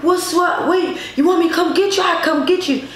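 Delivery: high-pitched, eager offer to help; retold urgent concern. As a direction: act out a friend rushing to help. Friend offering rescue on phone.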